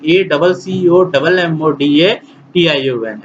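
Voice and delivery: letters spelled out slowly for the class; slow spelling out. Shown as a demonstration. Teacher spelling the correct answer aloud, slowly. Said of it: "क्या है ऐसा spelling".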